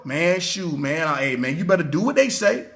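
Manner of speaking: lightly voiced bystander, low and offhand; a casual man on the street urging you to comply, understated; preacher voicing a bystander, low and offhand; voicing a regular guy. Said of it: "This is what people are gonna be saying".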